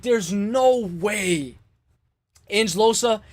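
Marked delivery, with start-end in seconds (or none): 0.0-1.6 very slow, stretched stunned reaction; slow awed recalled reaction; drawn-out disbelief. Retold or imitated. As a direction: draw out every word in disbelief. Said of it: "I was like".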